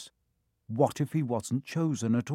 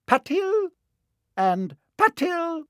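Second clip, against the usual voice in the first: high, loud roll call of names; 5 dB louder, slower than usual. A narrator's reading. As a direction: read each name to the hall. Calling twin names.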